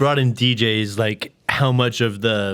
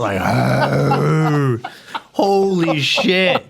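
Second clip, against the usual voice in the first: talking through spicy heat; burning mouth. Real, not acted. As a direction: mouth on fire from hot sauce. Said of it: "I feel like a fire-breathing dragon".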